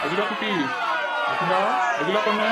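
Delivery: affectionate call, names drawn out. Acted. Brother arriving calls out for his sister, calling out. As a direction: call out for someone in the house.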